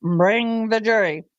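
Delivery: slow, drawn-out Bring the jury; imitating judge. Host quoting the judge for a sound bite. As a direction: mimic the judge's slow order. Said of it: "sound bite from the Murdaugh trial".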